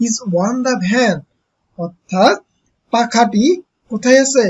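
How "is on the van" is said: slow read-aloud. Shown as a demonstration. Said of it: "এবার কি বলতেছে".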